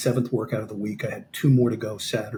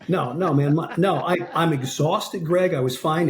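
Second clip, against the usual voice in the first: slightly raised, protesting retold excuses; making excuses; 4 semitones higher than usual. Exhausted fighter excusing himself to coach, mildly protesting. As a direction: protest as if retelling your own excuses. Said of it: "I start making excuses".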